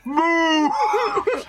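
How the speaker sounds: yelled command. Acted. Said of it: "I'm yelling at y'all to move".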